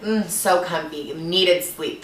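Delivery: soft, contented mm; gently savoring the comfort; blissfully cozy. Retold or imitated. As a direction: murmur it like snuggling into bed. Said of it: "just, like, loving this moment".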